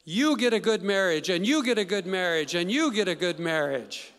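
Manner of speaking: light Oprah giveaway shout, each you punched; lightly voiced Oprah giving everyone a prize; Oprah giveaway impression. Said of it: "it went like this".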